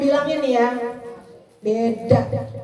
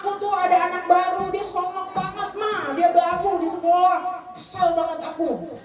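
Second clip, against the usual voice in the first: put-on annoyed child; 5 semitones higher than usual. Shown as a demonstration. Child voiced complaining to mother.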